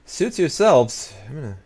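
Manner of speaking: drawn-out high loud huff; mock huffy. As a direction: sulk loudly at the refusal. Rejected by Royal Scythia.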